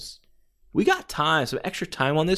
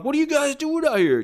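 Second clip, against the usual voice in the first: Jesse Ventura interviewing; 14 semitones higher than usual. Retold or imitated. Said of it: "Jesse Ventura comes out".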